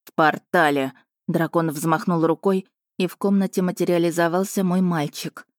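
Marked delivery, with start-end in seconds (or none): 0.0-0.9 low, terse dragon voice; dragon's curt reply. Acted. Dragon answering the mother, curt low reply. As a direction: drop it coldly and briefly.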